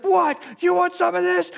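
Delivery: high, loud hammed-up truck driver taunt; mock tough-guy yell. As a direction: play the angry trucker picking a fight. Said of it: "He's screaming and yelling".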